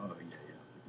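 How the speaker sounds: very soft, low murmur; imitating Bruce Bruce. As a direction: mumble agreement as the easygoing comic. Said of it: "He's like".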